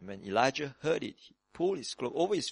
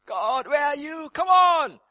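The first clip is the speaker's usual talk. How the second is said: higher, louder impatient cry; calling out to God; 11 semitones higher, 6 dB louder than usual. Pretend. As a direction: call out to God, impatient and pleading. Imagined impatient crying out.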